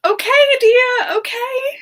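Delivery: high airy whisper of okay dear; amused high whisper. Real, not acted. Streamer humoring a chatter's odd request, amused high whisper. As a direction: humor them with a breathy high coo.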